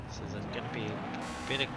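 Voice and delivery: building excitement into the race start; motorsport commentator. Real, not acted. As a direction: call the start, rising to green.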